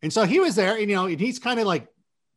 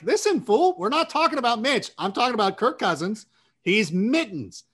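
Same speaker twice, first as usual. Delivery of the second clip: mock retort; 4 semitones higher than usual.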